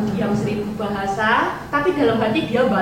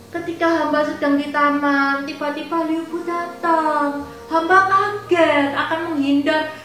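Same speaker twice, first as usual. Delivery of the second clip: higher, put-on victim voice; acting innocent; 5 semitones higher than usual. Yao Jan feigning innocence to her husband, higher and pleading. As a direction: play the wronged innocent girl. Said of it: "Yao Jan acting".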